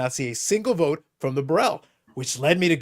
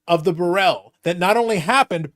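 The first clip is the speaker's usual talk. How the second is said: dramatic reveal; 4 semitones higher, 6 dB louder, slower than usual. Real, not acted.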